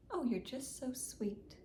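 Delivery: soft slow whisper to a pet; slow hushed pet whisper; whisper to the cat. Real, not acted. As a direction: breathe it softly at the cat.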